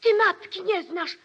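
mother rebuking her daughter in front of guests; wounded reproach. Acted. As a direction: cry out at the daughter who denies her.

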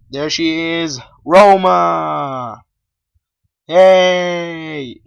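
excited owner shouting at the dog; calling the dog. Real, not acted. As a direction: yell to get her attention.

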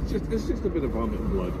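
fast laughing repeat; giggling through the words. Real, not acted.

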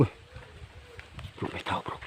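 very soft, voiceless whisper; hushed warning. Real, not acted. Warning his bro someone is there, whispered. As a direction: whisper it so only your friend hears. Warns friend someone is near.

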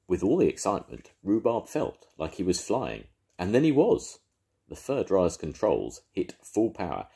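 lively read-aloud for little ones; storybook narration. A narrator's reading. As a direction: tell it like a grandad at bedtime. Narration between voices.

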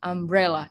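"umbrella" as um-BRE-lla; stress on second syllable. Shown as a demonstration. Teacher explains dictionary stress mark, "umbrella" stressed on BRE. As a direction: press the middle syllable of "umbrella". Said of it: "itu artinya yang ditekan ya".

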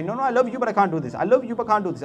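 lightly imitated child fobbing off mother; child making excuses. Acts out child refusing mother.

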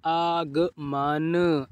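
आगमन slowly joined in stretched pieces; slow blending. Shown as a demonstration. Teacher joining sounds for learners, slow blending. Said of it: "इस तरीके से आप पढ़िए".

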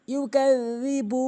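ইউকাজ্জিবু slowly, ذ with tongue tip on teeth; slow correct ইউকাজ্জিবু. Shown as a demonstration. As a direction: recite ইউকাজ্জিবু slow and melodic. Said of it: "বলতে হবে ইউকাজ্জি".

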